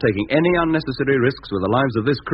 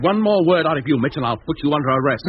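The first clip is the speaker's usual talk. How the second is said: angry threat; 4 semitones higher than usual. Acted. Captain threatening to arrest the mutinous designer, angry and raised. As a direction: lay down the law.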